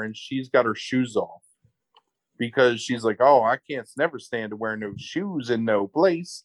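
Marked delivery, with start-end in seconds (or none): 3.2-6.4 lightly voiced hick twang; hick accent. Host mimicking barefoot woman at dinner, light hick accent. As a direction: imitate a country hick, folksy. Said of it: "she turns into this fucking hick".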